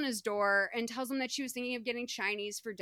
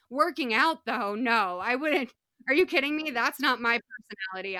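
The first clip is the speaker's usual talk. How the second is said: loud emphatic disbelief; 2 semitones higher, 6 dB louder than usual. Real, not acted. Emphatic denial about exercising.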